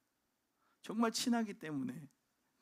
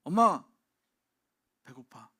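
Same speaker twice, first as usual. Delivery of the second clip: put-on child calling mom; 2 semitones lower, 11 dB louder, slower than usual. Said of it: "뭐라고 얘기합니까".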